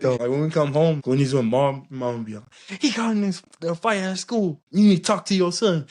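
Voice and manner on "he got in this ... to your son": put-on higher-pitched mom in a Polynesian accent. Mom tells dad about the fight at school, Polynesian-accented imitation. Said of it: "why you gotta do the accent".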